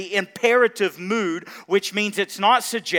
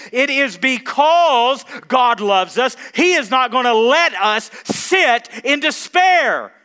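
raised, louder preacher's cadence; rousing sermon delivery; preaching at full force; 7 semitones higher, 8 dB louder than usual. Acted. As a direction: preach it out to the congregation, building. Pastor preaching to congregation.

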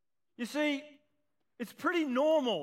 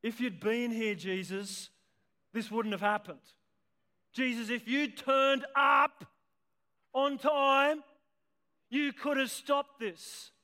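Mary's grieving plea. Retold or imitated. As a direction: let Mary's grief build until she bursts out at Jesus. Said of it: "Do you hear what Mary said?".

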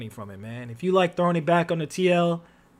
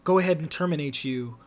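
corporate HR voice; 5 semitones lower, 6 dB quieter than usual. Retold or imitated. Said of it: "they're like".

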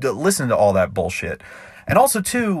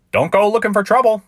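barman's warning; 10 semitones higher, 4 dB louder than usual. Acted. Barman warns the cowboy.

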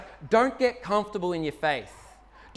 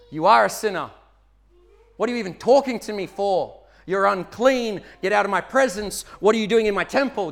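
a stern, louder rebuke of the sinner; mock angry God; 4 dB louder than usual. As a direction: scold the sinner as a harsh God would. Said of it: "What's God's reaction to this plea?".

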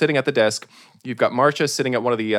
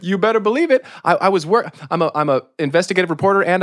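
eager reporter; 4 semitones higher, 3 dB louder, faster than usual. Acted. Reporter character speaking.

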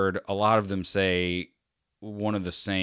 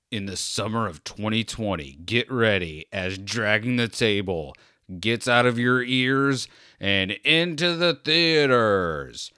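trailer guy voice; 3 semitones higher, 4 dB louder than usual. Pretend. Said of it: "trailer guy voice".

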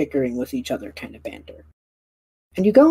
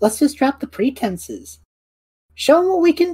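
excited Perrin; 11 semitones higher than usual. Acted. Perrin urging the others to show off, rising to a high cheer. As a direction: build up to a gleeful reveal.

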